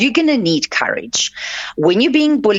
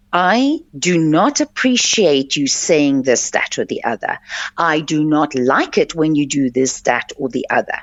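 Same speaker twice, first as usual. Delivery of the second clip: calm and even, nothing dramatic; 3 semitones lower than usual. Shown as a demonstration. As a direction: state it plainly without rising. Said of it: "in a very calm tone".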